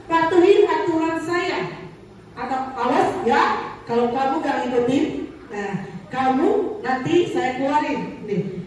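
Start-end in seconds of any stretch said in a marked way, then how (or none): 0.1-1.6 firm, louder command to a pupil; stern punishing teacher. Retold or imitated. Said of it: "guru menerapkan posisi penghukum". 2.8-8.2 threatening teacher. Retold or imitated. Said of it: "Kata-kata yang sering dipakai oleh guru".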